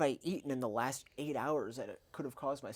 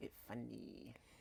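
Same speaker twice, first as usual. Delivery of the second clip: put-on soft whispered babyish voice, baby talk; 3 semitones lower, 15 dB quieter than usual. Showing how they say things for fun: imitating own baby talk. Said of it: "In the same way that I say".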